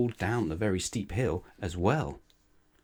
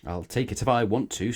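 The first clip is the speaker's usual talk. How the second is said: snorting; 3 semitones higher, 3 dB louder than usual. Acted. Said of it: "snorted Little Miss Stubborn".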